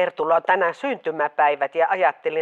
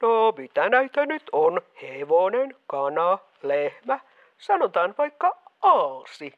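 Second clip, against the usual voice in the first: odd disguised voice. Acted. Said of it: "sunkin ääni kuulostaa jotenkin oudolta".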